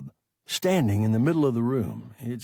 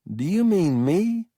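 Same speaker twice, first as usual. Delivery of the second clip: startled high question, a touch louder; surprised; 6 semitones higher, 5 dB louder than usual. Acted. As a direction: caught off guard, higher.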